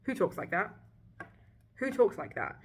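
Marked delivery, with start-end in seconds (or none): 1.8-2.6 higher, louder disbelief; louder incredulous repeat. Real, not acted. Ranting about the book's dialogue, louder in disbelief. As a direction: hit it harder the second time.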